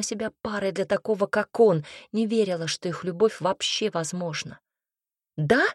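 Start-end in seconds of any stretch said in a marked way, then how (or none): 5.4-5.6 drawn out, sneering; mocking drawn-out yeah. A narrator's reading. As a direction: drag the word out to mock her. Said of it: "протянула Танька издевательским тоном".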